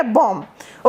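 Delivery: "बॉम्ब" said as bom; silent final B. Shown as a demonstration. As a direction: end "बॉम्ब" on M, no B. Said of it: "इसका कोई sound नहीं है".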